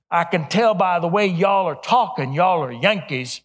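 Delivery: lightly imitated Texas drawl; strong Texas drawl. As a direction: imitate a Texan janitor's drawl. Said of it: "strong Texas drawl".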